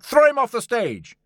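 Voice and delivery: loud, high crowd jeer; acted angry heckling; heckler's shout. A narrator's reading. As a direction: yell it at the stage, pitched right up. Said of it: "there were shouts of".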